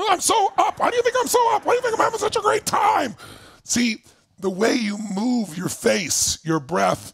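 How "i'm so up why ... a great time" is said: mock elated. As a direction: burst with over-the-top cheer. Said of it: "look at your body".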